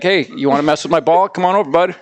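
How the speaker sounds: lightly voiced swaggering dog; bully dog. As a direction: goad them like a cocky bully of a dog. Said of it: "a little bit of a bully".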